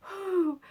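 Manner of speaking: high puff of relief-seeking breath; acted steadying exhale; catching breath. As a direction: blow out a big whew, imitating breathlessness. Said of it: "trying to catch my breath".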